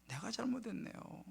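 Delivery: soft, humbled confession; retold hushed repentance; repentant prayer. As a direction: confess it to God very quietly. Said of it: "하나님께 회개했어요".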